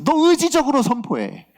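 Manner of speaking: high, emphatic command as God; insistent preacher voicing a divine charge; God's urging. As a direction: press the order home with fervour. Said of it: "하나님의 뜻인 것 같았어요".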